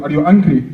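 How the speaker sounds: "angry" for hungry, with silent H; French diner asking at dinner, H dropped in "angry". Acted. French person asking a dinner guest, French dropped H. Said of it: "you guys don't say the H".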